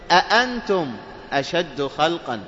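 "أأنتم" with two distinct glottal stops; both hamzas articulated. Shown as a demonstration. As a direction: give each hamza in أأنتم its full catch. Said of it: "ينطقونها بهمزتين محققتين". ("أأنتم" بتحقيق الهمزتين)

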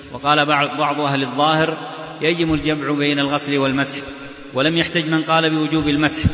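steady, even book-reading voice; reading aloud. Real, not acted. Teacher reading a legal text to students, steady reading-aloud voice. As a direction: read the passage straight through in an even tone.

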